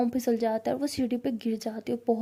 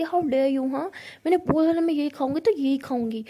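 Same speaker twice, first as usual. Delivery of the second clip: louder, indignant snap; angry retort; 3 semitones higher, 4 dB louder than usual. Retold or imitated. Sister snapping at Dr Ishan over her plate, indignant and louder. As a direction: refuse to give back the plate. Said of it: "गुस्से से".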